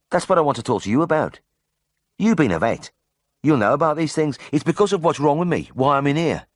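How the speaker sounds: high, earnest Brummie patient; Birmingham accent. A narrator's reading. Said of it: "in a ripe Birmingham accent".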